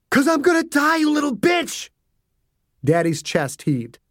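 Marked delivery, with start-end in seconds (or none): 0.1-1.9 high, strained outburst; father cursing his daughter in agony; desperate curse. A narrator's reading. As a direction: spit it out in terror.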